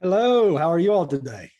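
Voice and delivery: natural eastern Kentucky Appalachian accent. Real, not acted. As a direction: speak in a relaxed Appalachian accent. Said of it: "I'm loving your Appalachian accent".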